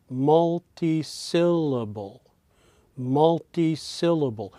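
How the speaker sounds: "multisyllable" slowly, syllable by syllable; syllable melody. Shown as a demonstration. Lecturer showing syllable groupings by pitch, "multisyllable" in measured melody. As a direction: sound out the pitch pattern of "multisyllable". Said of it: "because of my pitches".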